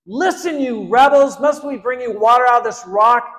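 high, loud angry outburst; furious shout. Retold or imitated. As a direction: yell at the rebels. Moses rebukes the complaining people.

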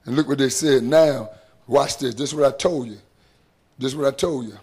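low, soft confiding preacher voice; a quiet warning to the congregation; hushed aside. Real, not acted. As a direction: lean in and drop to a hush.

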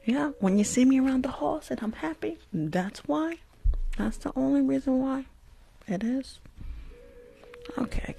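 lightly voiced school nurse, mostly whispered; a bored school nurse on lice check, half under her breath; school nurse character. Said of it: "still talking like the nurse".

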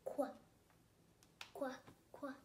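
"Qu" as a short "kwuh"; phonics Q sound. Shown as a demonstration.

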